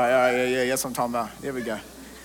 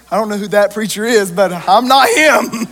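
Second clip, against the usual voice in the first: joking denial; 2 semitones higher, 6 dB louder than usual. Retold or imitated. Pastor joking to a stranger at the gas station, playful and louder. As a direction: dodge it with a grin. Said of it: "And I'm like".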